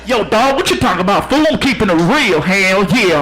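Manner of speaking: put-on street-slang swagger; hip-hop radio DJ. DJ defends his style to puzzled guest, parodied hip-hop voice. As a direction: talk like a hype station host. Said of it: "why are you talking like that?".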